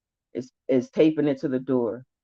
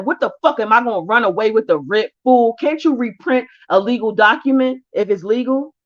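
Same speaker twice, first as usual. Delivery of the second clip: fast, louder, exasperated challenge; retelling a fed-up argument with the officer; heated retort; 6 semitones higher, 6 dB louder than usual. Retold or imitated. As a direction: snap back at her in disbelief. Arguing with the officer over writ.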